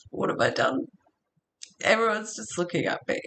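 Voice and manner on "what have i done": breathless, higher whisper of shock; panicked whisper. Retold or imitated. Frozen driver whispering in shock after the blowout. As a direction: gasp it out as if caught doing something awful.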